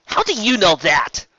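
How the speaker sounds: high, loud startled demand; startled question. Acted. Rainbow startled that Discord knows, high and loud. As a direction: blurt it in surprise.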